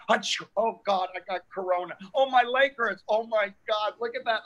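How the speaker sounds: high, panicky whining; mock a nervous hypochondriac; whiny hypochondriac. Mocking panicky people.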